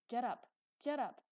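loud, high angry shout. A narrator's reading. Uncle yelling at the cowering boy, shouting. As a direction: shout it as a harsh order. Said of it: "he shouted at the boy".

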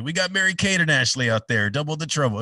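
show announcer. Retold or imitated. Announcer covering for a missing skier, upbeat show patter. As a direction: sell it to the crowd as planned.

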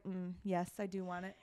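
soft, savoring mock voice; hushed give-in to temptation; quiet indulgent. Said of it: "I was like".

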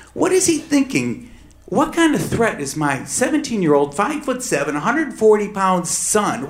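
high, urgent questioning; anxious pleading. Retold or imitated. Father wondering what the judge sees in his son, anxious. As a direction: mind racing, pleading.

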